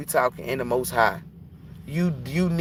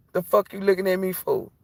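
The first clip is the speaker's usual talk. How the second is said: higher, irritated; mock angry; 7 semitones higher than usual. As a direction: snap at someone staring. Scolding the watching spirit.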